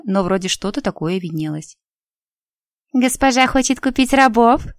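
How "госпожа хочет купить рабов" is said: unctuous, fawning merchant; oily voice. A narrator's reading. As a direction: sweet-talk like a sly trader. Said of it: "раздался елейный голос".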